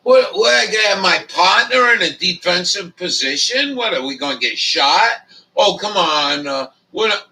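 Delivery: mock indignant yelling at the warden; retelling his angry reply to the warden's warning; retold outrage. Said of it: "I'm like".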